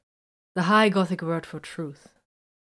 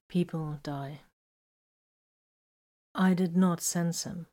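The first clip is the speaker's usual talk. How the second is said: a touch of sadness; slower than usual. A narrator's reading. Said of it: "Vox shrugged a bit sadly".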